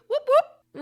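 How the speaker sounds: high, loud whoop; cheer. Real, not acted. Cheering to listeners about going group-only, loud and high. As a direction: cheer like a hype crowd.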